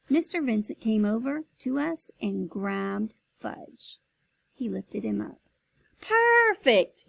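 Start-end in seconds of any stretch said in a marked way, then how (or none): 6.0-7.0 loud, much higher cry; excited cry. Acted. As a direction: burst out with delight. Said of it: "he cried".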